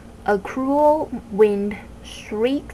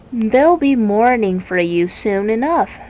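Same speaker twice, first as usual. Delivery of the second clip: a touch of a sly, sinister bird; looming threat from above; the Word Snatcher taunting Milo; menacing bird voice; 4 dB louder than usual. Acted. Bird's menacing reply.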